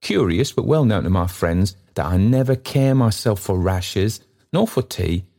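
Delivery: put-on kindly old man pressing his offer. Trotty offering the stranger lodging, eagerly.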